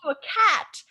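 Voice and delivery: put-on high, slow doddering old wizard hum; a tiny Lego Dumbledore humming at a cat; mock Dumbledore. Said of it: "Tiny Dumbledore says".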